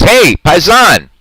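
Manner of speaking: mock Italian-Spanish hello; playful imitation of a friend's greeting; imitating Anthony. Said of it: "He says".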